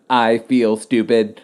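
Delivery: laughing mock whimper; laughing quote. Real, not acted. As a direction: giggle out a mock line.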